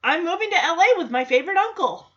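quick, upbeat imitated kid; acted confident declaration; eager announcement. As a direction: announce the plan brightly and fast. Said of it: "And Jackson says".

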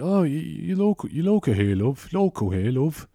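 lightly acted local cabbie, pitch jumping up; a hint of a local driver's patter; lightly voiced taxi driver.

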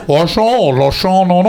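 high, mock Scottish wail; Sean Connery. Comic mocks the guest's accent attempt, hammed-up impression. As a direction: exaggerate a mangled Scottish film-star voice. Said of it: "talks like Sean Connery".

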